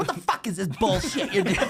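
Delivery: swooping, cartoonish Jersey accent. Speaker retelling what a man said, in a Looney Tunes-style Jersey accent. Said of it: "it's like a Looney Tune thing".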